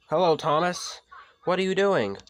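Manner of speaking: high, loud little engine voice; Thomas voice. Acted. Thomas greets Flynn, high and eager. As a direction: play the cheeky small tank engine.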